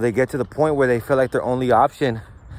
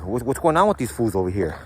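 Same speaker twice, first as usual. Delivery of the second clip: questioning; 3 semitones higher than usual. Retold or imitated. Leader innocently questioning a youngster, mock curious. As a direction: plant the idea with a question. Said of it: "You're just questioning".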